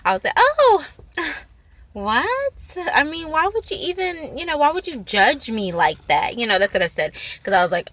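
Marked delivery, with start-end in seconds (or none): 0.4-6.4 high, startled oh, playing it cool; feigned innocent surprise. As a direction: act shocked but keep it light and casual. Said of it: "we need to do this in a casual way".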